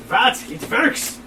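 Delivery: "works" said as "verks" with a V; Russian accent. Shown as a demonstration. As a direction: start "works" with a hard V sound. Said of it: "begin every word with V".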